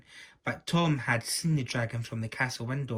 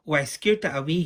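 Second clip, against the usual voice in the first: cackling; 4 semitones higher, 6 dB louder than usual. Acted. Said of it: "cackled Arabella".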